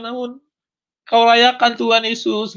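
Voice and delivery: high, pleading cry of gratitude; overwhelmed cry. Retold or imitated. Believer thanking Jesus for making him worthy, high overwhelmed cry. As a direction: keep crying out high to Jesus. Continues the cried prayer to Jesus.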